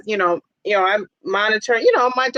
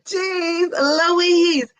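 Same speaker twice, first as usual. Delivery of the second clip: amused exclamation; 7 semitones higher than usual. Real, not acted. Exclaiming at a comment.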